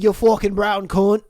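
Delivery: put-on abusive Scottish voice; mock Scottish accent. Scotsman abusing the Canadian, mock Scottish accent. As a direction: hurl the insult in mock Scottish. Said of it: "Happened in Scotland".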